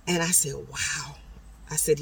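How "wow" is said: soft whispered amazement; hushed awe. Retold or imitated. Learner hearing of the stranger's teaching years, whispering in awe. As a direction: breathe it out under your voice. Awed reply to a longtime swim teacher.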